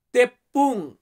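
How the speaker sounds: তেপ্পুং with a slight lift, the word set apart; Malay word. Shown as a demonstration. Teacher presenting তেপ্পুং to viewers learning Malay. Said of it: "এটাকে আমরা বলি".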